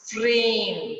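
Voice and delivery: फ्रेम with a clear fricative f, teeth on lip; nukta sound in frame. Shown as a demonstration. Teacher showing children the nukta f in फ्रेम, slow and clear. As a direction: say फ्रेम with friction on the f. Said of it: "ज की आवाज मुंह से निकलने लगेगी".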